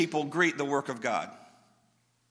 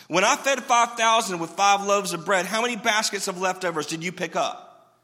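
going off on them; 4 semitones higher, 5 dB louder than usual. Acted. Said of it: "went off on them".

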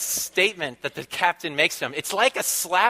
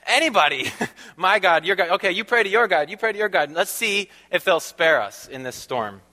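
quick, raised voice of sailors bargaining with their gods; panicked sailors; 3 semitones higher than usual. Retold or imitated. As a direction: play a frightened sailor pushing everyone to pray. Frantic sailors voiced in story.

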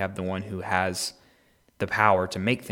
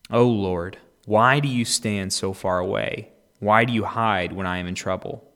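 psalm reading; 5 dB louder than usual. Acted. Reader praying the psalm aloud, pleading. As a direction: read the psalm as a cry.

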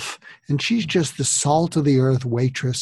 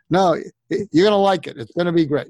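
Jack Nicholson impression; 4 semitones higher, 3 dB louder, faster than usual. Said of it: "It's my Jack Nicholson".

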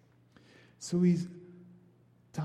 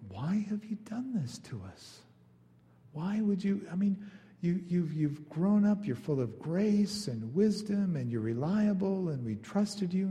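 kind mother; 5 semitones higher than usual. Retold or imitated. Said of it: "Mary says it in a very kind way".

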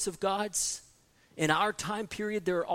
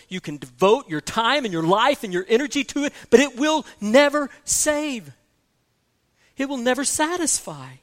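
rising sermon crescendo, louder and higher; preaching climax; 5 semitones higher, 10 dB louder than usual. Real, not acted. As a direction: pound it home from the pulpit.

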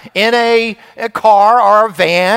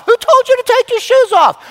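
much higher, louder mock outrage; dad scolding the kid, high exasperated mock outrage; 13 semitones higher, 4 dB louder than usual. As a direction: scold like a fed-up father.

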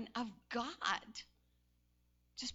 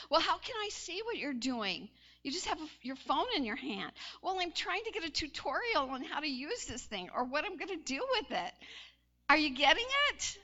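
mock bickering; 4 semitones higher, 3 dB louder than usual. Acted quarrel with Lonnie.

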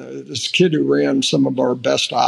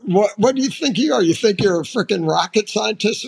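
mock incredulous retort; 6 semitones higher than usual. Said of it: "I looked at him, I said".

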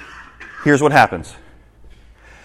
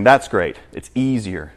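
tempting flesh; 5 semitones lower, 5 dB quieter, slower than usual. Acted. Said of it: "My flesh is saying".

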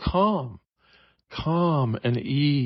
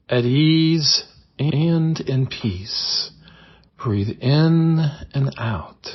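guided meditation. Acted. Host guiding listeners through calm affirmations, in a soothing meditation voice. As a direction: ease the listener into calm, word by word.

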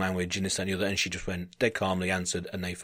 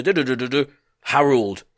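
higher mock-jabber ending on the name; imitated scolding gibberish; 4 semitones higher, 3 dB louder than usual. German woman scolding Harold, imitated gibberish. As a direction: babble crossly, then land on the name. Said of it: "and then she goes".

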